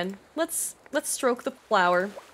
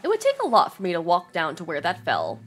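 story narration. A narrator's reading. Reading game story text aloud.

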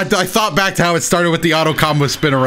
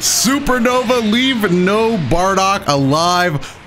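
hammed-up move call; 5 semitones higher, much slower than usual. Calls out super move slowly.

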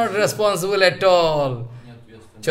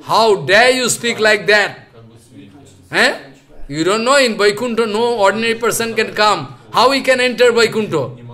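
loud, higher rebuke of the gatemen; angry sages; 3 semitones higher, 5 dB louder than usual. Retold or imitated. Sages angrily rebuking the gatemen, loud and raised. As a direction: scold them like outraged sages. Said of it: "Chatussan become very angry".

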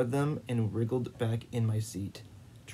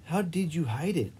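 abrupt question; 6 semitones higher than usual. A narrator's reading. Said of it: "Ivan asked abruptly".

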